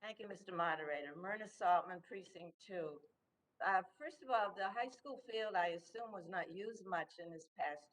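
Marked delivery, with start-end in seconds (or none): 0.0-5.5 muffled by a mask; speaking through a face mask. Real, not acted. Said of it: "Speak up, please".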